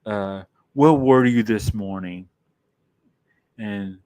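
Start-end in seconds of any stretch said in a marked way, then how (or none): 0.1-2.3 louder, scolding mother; a mildly voiced mother scolding her son; upset mother. Mother scolding her son about lying to the principal, louder. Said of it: "she's upset with her son".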